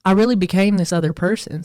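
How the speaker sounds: put-on light American Southern accent on the quote. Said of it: "I'll do it with a Southern accent".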